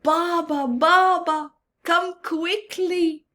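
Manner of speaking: calling Baba across the dhow; yelling for dad. Acted. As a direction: call across the boat. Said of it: "he yelled across the dhow".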